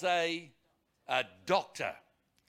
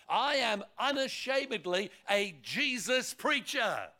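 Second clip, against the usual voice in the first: emphatic, ringing sermon delivery building in force; fervent preaching. Real, not acted. Preacher proclaiming Jesus to his congregation, fervent and building. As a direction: preach it boldly, driving each phrase home.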